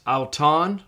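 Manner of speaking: auton said slowly and clearly; slow model word. Shown as a demonstration. Teacher models auton slowly for students. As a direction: let auton ring out slowly. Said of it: "alpha upsilon is pronounced ow".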